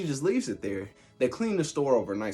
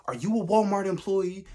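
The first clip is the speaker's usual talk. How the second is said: higher, sarcastic scolding; mock cursing out; 8 semitones higher than usual. Date mocking him in Walmart, higher sarcastic scold. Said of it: "she's just cursing me out".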